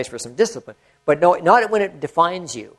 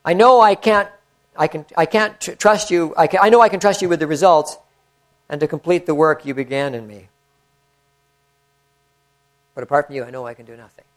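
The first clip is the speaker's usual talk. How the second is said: prayer. Acted. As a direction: pray it sincerely to the Lord. Reads a written prayer.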